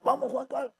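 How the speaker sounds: high, loud coach's yell; imitated trainer's shout. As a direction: imitate a trainer yelling encouragement across the gym. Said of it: "él me ve y me dice".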